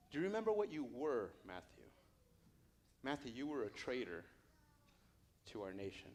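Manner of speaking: softly acted Jesus, unhurried with long pauses; tender, intimate. Jesus reminding Matthew of his past, tender and intimate. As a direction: speak low and gently, one to one.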